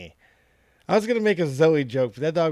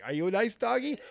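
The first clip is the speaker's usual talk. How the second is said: imitating sweet voice; 6 semitones higher, 4 dB quieter than usual. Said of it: "the dog just decided to answer you".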